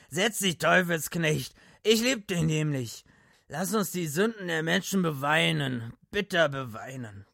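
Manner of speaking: put-on high, loud drunken lament. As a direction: wail it like a drunk preacher.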